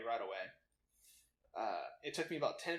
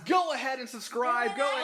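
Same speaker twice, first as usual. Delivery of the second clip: professional white voice; 11 semitones higher, 12 dB louder than usual. Pretend. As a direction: sell it like a formal radio host. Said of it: "my professional white voice".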